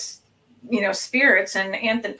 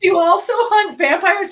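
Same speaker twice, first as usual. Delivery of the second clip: high, loud, giddy asking; retold excited question; 10 semitones higher, 7 dB louder than usual. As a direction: blurt it out in hammed-up amazement. Retold excited question to Transylvanian man.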